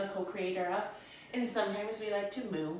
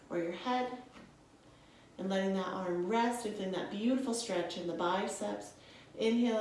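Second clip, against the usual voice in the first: guided yoga voice. Acted. Yoga teacher guiding students through poses, soothing. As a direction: talk the class through each breath calmly.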